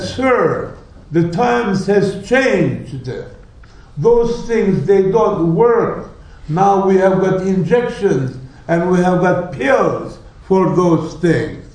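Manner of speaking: a pompous official's brush-off; haughty dismissal. Retold or imitated. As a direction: talk down to him like an outdated fool. Arrogant minister dismissing the sheikh.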